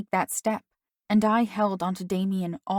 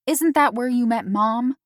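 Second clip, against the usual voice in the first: high, loud cheeky retort; 4 semitones higher, 6 dB louder than usual. A narrator's reading. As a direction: fire it back. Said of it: "I retorted".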